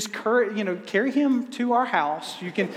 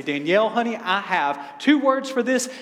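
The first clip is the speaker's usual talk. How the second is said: playful excitement; 3 semitones higher than usual. Retold or imitated. Husband spins it as date night.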